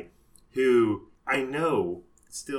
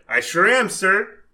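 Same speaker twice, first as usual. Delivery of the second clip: put-on polite young customer; 4 semitones higher, 7 dB louder than usual. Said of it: "He's like".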